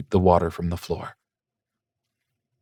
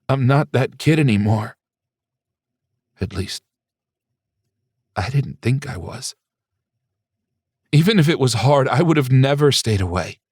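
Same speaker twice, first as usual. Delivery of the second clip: tearful protest; 4 semitones higher than usual. Acted. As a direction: insist through the tears that he'd have come. Son protests through tears.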